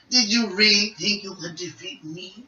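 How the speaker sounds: lightly voiced cocky villain; Frieza. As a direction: toy with a beaten opponent. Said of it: "voice acting of Frieza".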